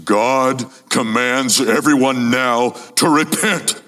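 slow, stern warning; a hint of menace, drawn out; threatening. Shown as a demonstration. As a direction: say it like a threat, slowly. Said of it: "like it's a threat".

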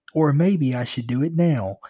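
menacing threat. A narrator's reading. Driver pins kid against car, threatening. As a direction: threaten slowly and loudly. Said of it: "slammed me against the car".

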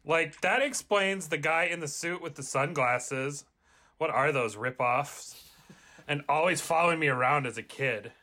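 a hint of Valley Girl, like-filled; casual, breezy Valley Girl chatter. Jones doubts being chosen, in a mild Valley Girl accent. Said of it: "What about Valley Girl?".

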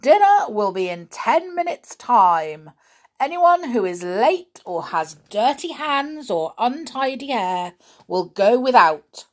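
loud, stern teacher's announcement; strict headmaster barking orders; stern schoolmaster. Acted. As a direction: lay down the rules to the class. Mister Grimm announces to pupils.

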